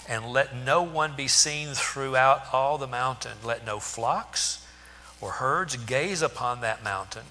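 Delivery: steady, measured reading of the Bible text; scripture reading. Acted. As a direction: read the verses plainly and solemnly. Reads scripture passage aloud.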